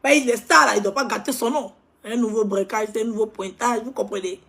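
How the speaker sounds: high, loud, fast-paced gossip rant; ranting loud about a show-off; loud animated rant. Acted. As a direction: hype it up, loud and worked up.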